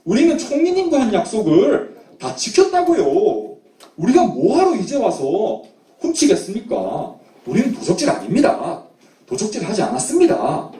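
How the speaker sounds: acted, pleading denial of an accusation; indignant protest. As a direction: protest your innocence insistently. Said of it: "이렇게 막 항변했어요". (억울한 듯 항변하는 말투)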